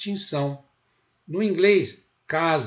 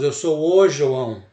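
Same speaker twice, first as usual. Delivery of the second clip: "o" in "eu sou o João" punched loud; stress on O; 6 dB louder, slower than usual. Shown as a demonstration. Teacher shows students the article Portuguese uses, stressed O. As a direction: lean hard on the article "o" before João. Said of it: "no português nós falamos".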